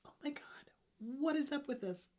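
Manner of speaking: breathy whisper fighting a sneeze; pre-sneeze whisper. Real, not acted. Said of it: "I am gonna sneeze".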